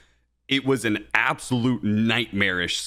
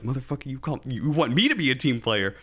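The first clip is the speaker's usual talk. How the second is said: higher pitched mock retort, half-hearted anger; indignant retort; 5 semitones higher than usual. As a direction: talk back to management in disbelief. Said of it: "Oh, I was so mad".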